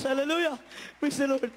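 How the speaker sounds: high, ringing praise cry; exultant hallelujah; fervent praise. Real, not acted. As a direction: burst out in praise to the congregation. Testimony exclamation in church.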